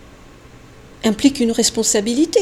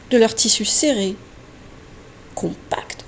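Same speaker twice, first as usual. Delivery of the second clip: whisper; 3 semitones lower, 4 dB quieter than usual. Acted. Praising readings, drops to whisper.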